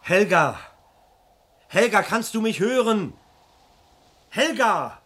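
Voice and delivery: high, loud, slow calls; desperate shouting. Acted. Husband shouts for wife into the phone, desperate. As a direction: yell into the dead line. Husband calling lost line.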